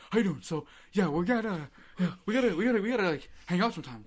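hammed-up goofy bro; big goon voice. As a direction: play the huge friendly goon. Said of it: "a big goon as he just is".

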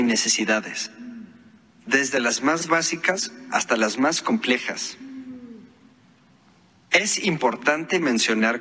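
robotic text-to-speech voice; synthesized voice. Real, not acted. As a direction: read it like a phone's speech app. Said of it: "esto que usted escucha es una voz sintetizada". (voz sintetizada de computadora)

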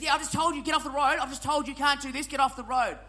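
lightly voiced irate driver; a hint of a nagging taxi driver; mock angry taxi driver.

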